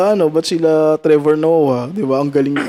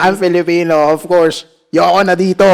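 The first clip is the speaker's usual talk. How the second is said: mock rant; 3 dB louder than usual. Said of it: "Naging rant".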